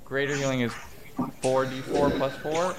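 flat robot voice reading numbers. Real, not acted. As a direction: read the dice like a robot. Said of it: "you sounded like a robot right there".

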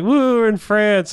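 high, slow, hammed-up cheer; mock cheering. Team arriving in France, hammed-up high slow cheer. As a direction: stretch it out like a giddy tourist. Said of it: "they're all just like".

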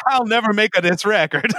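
put-on "diss record" run together as "diss a record" in a jokey Italian accent; mock Italian accent. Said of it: "I didn't know the rapper was Italian".

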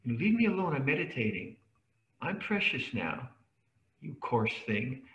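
prissy, put-upon mock complaint, slowing at the end; a hammed-up precious meditator snapping to be left alone. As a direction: lampoon a precious meditator shooing people off. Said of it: "precious experience".

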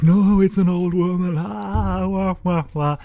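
put-on high, far-off wailing old woman. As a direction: wail like a shocked old lady. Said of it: "And then afterwards, like".

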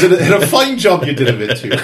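a quick wry jab as a grumpy grandpa; Grandpa Simpson. Retold or imitated. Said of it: "Grandpa's always talking ... he goes".

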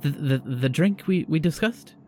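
stammering, shivering host; nervous cheeriness. Acted. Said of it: "a kinda cheeriness in his voice".

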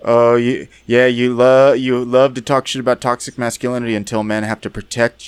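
heated rant, starting loud; angry role-play character letting rip; coming in hot. Acted. The speaker in role-play ranting at the two women, loudly angry. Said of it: "Keith coming in hot and screaming".

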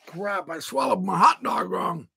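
ordinary delivery

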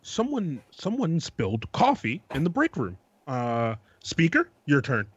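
lightly voiced debate moderator; mock formal moderator. S1 hosting a mock debate, a hint of moderator. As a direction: announce the scenario like a moderator. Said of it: "situation three".

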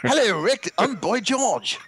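high, slow, hammed-up fake English accent; a pop singer in a bad English accent. On air pretending to be the British singer, awful English accent. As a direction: greet the host as a terrible English pop star. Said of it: "the worst English accent ever".

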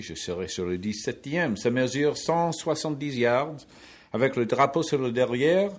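hammed-up French hole opening, loud and lilting; François Dupri. Commentator introducing the seventeenth in French, hammed-up presenter voice. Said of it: "I start out and I go".

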